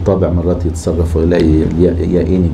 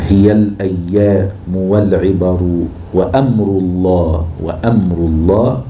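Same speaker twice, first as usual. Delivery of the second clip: هي الأيام والعبر وأمر الله said slowly, syllable by syllable; slow rhythmic scanning; metre scanning; slower than usual. Shown as a demonstration. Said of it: "حركتين سكون".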